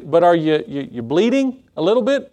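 high, halting mock-anxious question; worried king. King checks Daniel for wounds, mildly worried. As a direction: stammer with lightly acted concern, pitch climbing.

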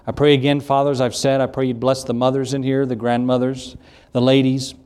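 even-toned closing prayer; earnest, level address to God; public prayer. Real, not acted. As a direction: pray aloud steadily for the congregation. Closes the service in prayer.

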